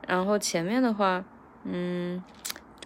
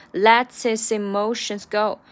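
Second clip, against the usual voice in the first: slow careful line; 5 dB louder, slower than usual. Shown as a demonstration. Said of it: "整个lets his emotions有三个S".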